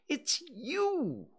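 high, fussy owl voice. Acted. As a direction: insist fussily, voice squeaking up high. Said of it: "getting quite fussy".

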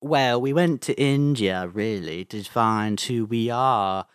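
slow down toward the end, mild Liverpool impression; a famous musician. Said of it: introduced as the speaker's impression of that musician.

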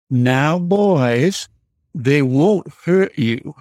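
a light hint of a slow, sweet Southern belle accent. Southern mother telling her scared boys not to worry, lightly mimicked Southern accent. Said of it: "in that sweet Southern belle voice".

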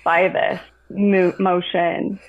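slow guiding voice; guided visualization. Acted. Therapist guiding client through a visualization, slowly. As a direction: lead her slowly through the image.

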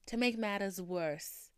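"matters" with a Boston dropped r; slow, Boston-tinged "matters"; accent slipping out. Real, not acted. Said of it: "I tried to say it without it".

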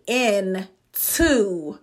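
"in to" pulled apart into two slow words; intuition split up. Shown as a demonstration. Teacher breaking intuition down for listeners, "in to" split apart. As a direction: stretch "in to", landing hard on "to". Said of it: "when I said the intuition".

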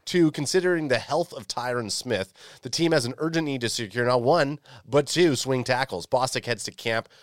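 fighting game announcer. Acted. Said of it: "jacked up right to the announcer voice".

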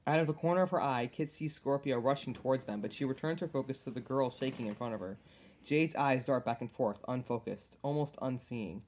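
measured read-aloud storytelling; story narration. A narrator's reading. Podcaster reading fanfic about a panic attack, measured narration. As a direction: narrate a tense scene with restraint.

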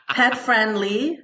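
laughing through the words. Real, not acted. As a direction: say it while giggling. Laughing while listing traits.

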